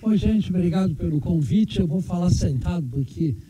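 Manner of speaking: numb mouth after surgery; talking with an anesthetized mouth; numb from the dentist. Real, not acted. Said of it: "ainda tô com o efeito da anestesia". (boca dormente da anestesia)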